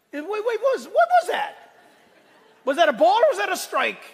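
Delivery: squeaky high bewildered umpire, laughing through it; confused umpire. Retold or imitated. Pastor mimics a confused umpire asking about the pitch, high and laughing. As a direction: play the baffled umpire who missed the call. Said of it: "he just goes".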